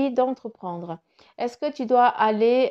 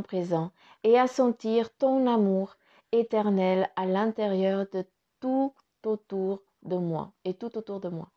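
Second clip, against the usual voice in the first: prayer reading. Acted. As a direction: read it like a heartfelt prayer. Reads a prayer aloud.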